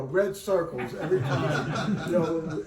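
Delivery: laughing through the words. Real, not acted. Laughing as he tells the audience about the editor's red circles. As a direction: chuckle while recalling the red circles.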